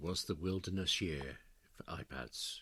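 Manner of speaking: serious, low, hushed documentary narrator voice. Wrapping up a point to the other speaker in a serious documentary voice. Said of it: "that was my serious documentary voice there".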